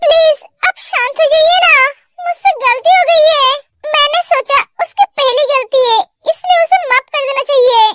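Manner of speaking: frightened pleading. Acted. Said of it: "ते बहुत डर जाती है".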